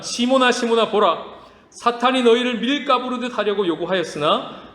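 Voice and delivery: earnest reading of Jesus's words; scripture reading. Shown as a demonstration. Pastor reads Luke aloud to the congregation, earnest. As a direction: read it as Jesus speaking to Simon. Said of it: "제가 읽어드릴게요".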